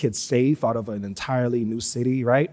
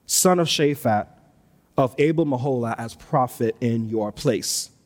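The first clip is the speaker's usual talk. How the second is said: a bit higher, measured reading of the passage; scripture reading; 3 semitones higher than usual. Acted. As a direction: read the verses with solemn weight. Reads scripture aloud.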